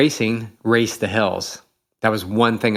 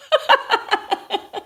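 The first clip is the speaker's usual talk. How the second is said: a high breathy laugh bursting out; burst of laughter. Real, not acted. Laughing at a friend who won't miss a finish.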